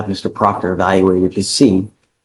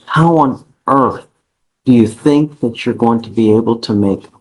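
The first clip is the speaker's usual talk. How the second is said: slow, deliberate incredulity; disbelief. Real, not acted. Judge confronting defendant over repeated bond failures, in disbelief. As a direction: spell it out slowly, pausing in disbelief. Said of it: "You can hear the disbelief in the judge's voice".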